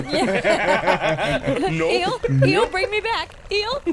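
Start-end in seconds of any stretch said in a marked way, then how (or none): 1.7-3.8 higher, pleading call for rescue; calling up to the ship in mock panic; frantic call.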